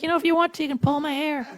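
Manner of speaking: put-on high, breathy-light girlish voice; girly voice. One-night stand partner, coy girlish high voice. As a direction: squeak it out like a coy little girl. Girl's high voice in bed story.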